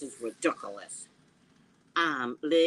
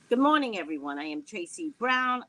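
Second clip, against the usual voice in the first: a light, formal anchor greeting, a touch brighter and louder; news anchor voice; 5 semitones higher, 3 dB louder than usual. Pretend. YouTuber playing CNN correspondent for her viewers, mild anchor voice. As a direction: play it like a morning TV anchor opening the show. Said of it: "did I sound like a news anchor there?".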